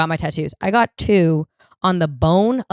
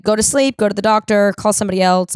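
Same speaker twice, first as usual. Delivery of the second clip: louder, exasperated list of orders; 3 semitones higher, 4 dB louder than usual. Retold or imitated. Daughter fed up with mom's panic, exasperated. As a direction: rattle them off fed up.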